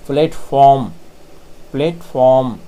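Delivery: प्लेटफॉर्म with the r curled back and kept inside; soft r demo. Shown as a demonstration. Teacher modelling प्लेटफॉर्म for students: r held in. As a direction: say प्लेटफॉर्म without a full r. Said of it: "आर आता है इन सबको हम मोड़ करके अंदर ही रख लेते".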